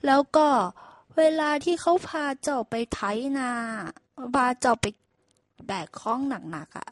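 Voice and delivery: boastful donkey teaching a trick; donkey lecturing the ox, pleased with himself; smug donkey. Acted. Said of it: "ด้วยความอดฉลาด".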